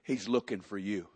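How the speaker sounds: secret whisper. Acted. Martha quietly calls Mary aside.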